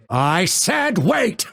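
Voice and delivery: high, slow exasperated order; impatient command. Acted. Fighter making ally wait, impatient command. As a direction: stretch it out in annoyance. Losing patience when asked.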